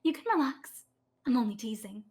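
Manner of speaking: reassuring. Acted. Priestess reassuring London.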